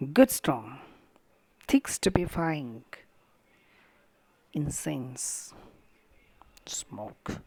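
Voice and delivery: weight each word of "Good strong, thick stupefying, incense, smoke"; "Good strong", "thick stupefying", "incense", "smoke" in separate stressed beats; strong equal stresses. Shown as a demonstration. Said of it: "having strong equal stresses".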